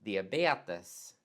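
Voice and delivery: diabetes as Swedish "dee-a-BEH-tes", falling; calm correct Swedish diabetes. Shown as a demonstration. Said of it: "So it's".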